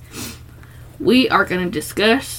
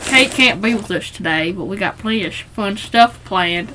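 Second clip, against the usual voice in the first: put-on Richard accent; 3 semitones lower, 4 dB quieter than usual. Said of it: "I get this accent every time I'm Richard".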